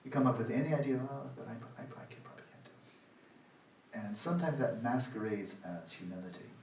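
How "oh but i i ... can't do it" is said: slow, near-breathless murmur of doubt; a limp, whispered "can't do it"; mock feeble excuse. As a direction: let the excuse fade away limply. Imitating a self-doubting excuse.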